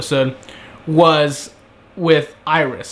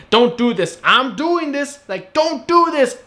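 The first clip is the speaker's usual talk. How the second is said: escalating mock whine; 9 semitones higher, slower than usual.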